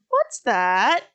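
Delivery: lightly voiced innocent kid; Gohan. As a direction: ask it with a hint of childlike cluelessness. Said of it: "and Gohan".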